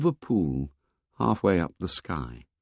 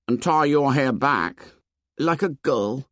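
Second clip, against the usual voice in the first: put-on high, earnest boyish voice; a timid boy offering eagerly; young Piggy, pitched well up; 6 semitones higher than usual. A narrator's reading.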